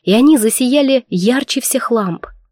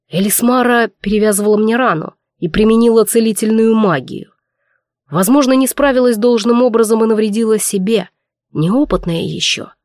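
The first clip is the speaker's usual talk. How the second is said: hoarse voice. Acted. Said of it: "хрипло проговорил Вильгельм".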